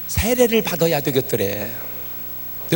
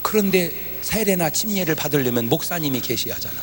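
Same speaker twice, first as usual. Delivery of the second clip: normal talking voice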